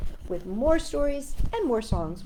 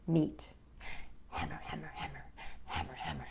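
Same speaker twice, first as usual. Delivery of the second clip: put-on poem read to children. A narrator's reading. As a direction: read the rhyme gently, dropping to a whisper on the hammering.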